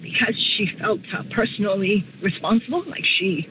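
real upset, halting with long pauses; choking up slightly, clearing the throat to keep going; trying to hold back emotion while talking; getting emotional. Real, not acted. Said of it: "I'm sorry, I'm getting emotional".

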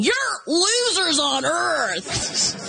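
high, slow taunting brag; mock gloating. Astronauts bragging to family in selfies, mock gloating. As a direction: draw out the taunt at those left behind. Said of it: "sending them to their family going".

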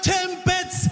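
high, sing-song "Timbits."; insistent customer. Retold or imitated. Customer singing "Timbits" at the clueless cashier, high and sing-song. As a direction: lilt it like a chant.

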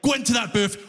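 high, aggressive inner Glaswegian, building to a yell; violent Glasgow voice. Acted. Glasgow voice in his head urging a fight, aggressive. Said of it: "the Glasgow voice".

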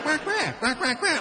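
defensive duck quacking. Retold or imitated. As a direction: quack back like a startled duck. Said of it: "It's like".

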